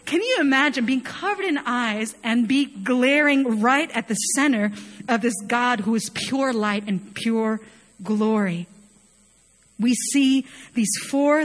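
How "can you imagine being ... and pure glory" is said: usual speaking voice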